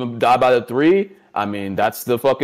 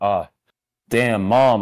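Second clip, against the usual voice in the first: insincere, sarcastic, fake sympathetic tone; 3 semitones lower than usual. Acting out a son comforting his mom: imitating sarcastic sympathy. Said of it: "that sarcastic, like".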